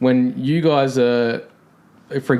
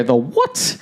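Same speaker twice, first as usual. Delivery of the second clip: 1 puzzled Aussie; 7 semitones higher than usual. Retold or imitated. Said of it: "They go".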